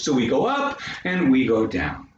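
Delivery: "up" lifted, "down" dropped; modest Canadian inflection. Shown as a demonstration. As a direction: step the pitch up on "up" and down on "down". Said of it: "three notes change in a Canadian dialect".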